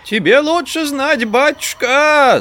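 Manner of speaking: put-on high, nasal-free whine of an old peasant woman; whining old woman. A narrator's reading. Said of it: "Заныла ... искусственным голосом". (ноющий голос бабки)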